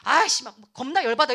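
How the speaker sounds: irritated grumbling outburst; acted exasperation; inwardly seething. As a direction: grumble as if boiling inside. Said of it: "속은 끓어오르면서".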